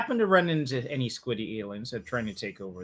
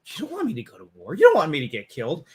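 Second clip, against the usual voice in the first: weaselly coward. Retold or imitated. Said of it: "such a swarmy, slimy, weaselly guy".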